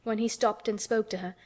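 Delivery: plain reading voice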